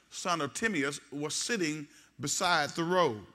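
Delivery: slow, measured reading of the text; slow scripture reading. Real, not acted. Pastor reading Mark to the congregation slowly. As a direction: read it out for the church.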